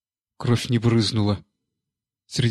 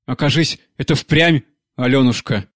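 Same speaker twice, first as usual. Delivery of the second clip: wild cry; 3 dB louder than usual. Acted. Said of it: "диким голосом воскликнула".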